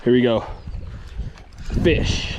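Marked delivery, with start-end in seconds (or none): 1.8-2.4 hushed whisper, no voice; fishing whisper. Real, not acted. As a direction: whisper so the fish won't hear. Whispered as the bite comes.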